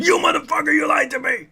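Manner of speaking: high, mock-furious outburst; pissed off. Angry Moraine confronting someone who lied, mock-furious high voice. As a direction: accuse through gritted teeth, pitched high. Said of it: "she's pissed off and gritted teeth".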